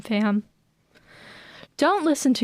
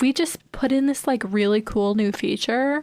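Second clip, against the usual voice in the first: put-on Valley Girl voice. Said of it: "that's enough of the Valley Girl voice".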